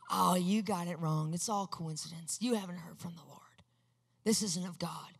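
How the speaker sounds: low, sinking into a hushed whisper; voice of fear. Retold or imitated. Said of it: "fear tried to come in and say".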